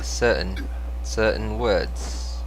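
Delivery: slow, fake-sounding British accent; attempted British accent. Shown as a demonstration. Streamer testing certain words on own ears, fake British accent. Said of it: "does not sound very British".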